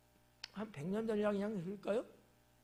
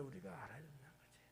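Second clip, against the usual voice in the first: breathy hushed aside; whisper; 4 semitones lower, 17 dB quieter, faster than usual. Real, not acted. Preacher whispers the point to congregation, hushed.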